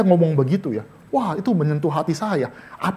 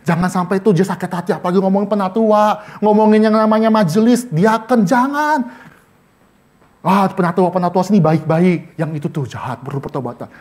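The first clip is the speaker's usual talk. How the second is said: a hint of a fussy gossiping congregant; mocking church member; 2 semitones higher, 4 dB louder than usual. Churchgoer fussing that the sermon offends members. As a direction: nag a little about the guest preacher. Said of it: "Kok malah ngomong".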